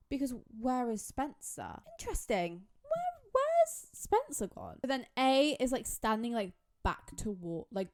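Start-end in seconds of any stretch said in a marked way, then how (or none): 2.8-4.8 much higher, a dramatic gasping question; alarmed cry. Retold or imitated. Vlogger voicing a shocked girl waking in the dollhouse, high alarmed cry. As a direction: sound shocked to find someone missing.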